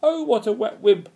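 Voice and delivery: high, loud jeer; mocking exclamation. A narrator's reading. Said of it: "exclaimed another".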